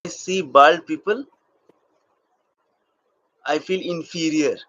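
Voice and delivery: slow acting demo with long, weighted pauses; acted monologue. Shown as a demonstration. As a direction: act out a halting confession, letting each phrase hang. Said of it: "and doing acting".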